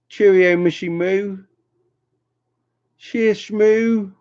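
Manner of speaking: high-pitched, drawn-out goodbye; sing-song farewell. Real, not acted. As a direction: call out a playful high farewell. Calling goodbye to a friend.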